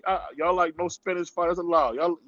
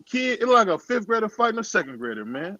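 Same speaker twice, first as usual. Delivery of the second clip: worked up; 7 semitones higher than usual. Real, not acted. Heated outrage at bad fight.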